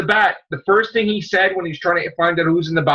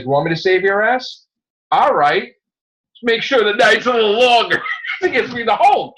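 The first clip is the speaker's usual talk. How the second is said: Hulk voice; 7 semitones higher than usual. Retold or imitated. Hulk voiced in comic retelling.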